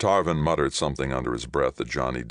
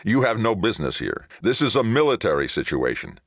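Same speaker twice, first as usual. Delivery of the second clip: high, louder, hostile rebuke; angry snarl; 7 semitones higher, 4 dB louder than usual. A narrator's reading. Ray rebukes Johnny for intruding, snarling. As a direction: pull rank with a raised snarl. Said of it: "he snarled".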